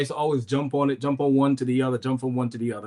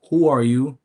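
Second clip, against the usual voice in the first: retold confident challenge, a little louder; confident questioning; 2 semitones higher, 5 dB louder than usual. Asking the returning kids who they are, confident. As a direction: ask it firmly, with new confidence. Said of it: "this time I had more confidence".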